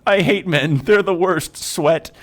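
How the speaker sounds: high, loud mock disgust at men; ranting hag. Hag rails against men to the party, high and loud. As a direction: shriek it out in scorn.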